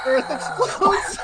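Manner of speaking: whisper. Acted. Echoing in a whisper.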